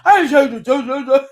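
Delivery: imitating husband's loud blowup; hammed-up mad denial; mock angry outburst. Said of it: "that's when he gets mad".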